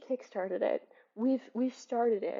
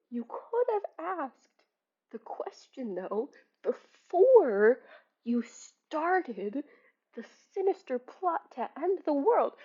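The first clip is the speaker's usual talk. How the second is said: higher-pitched exasperated lecture, punching key words; exasperated scolding; 4 semitones higher than usual. Acted. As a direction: scold her in pointed, exasperated bursts. Host scolds book character Libby.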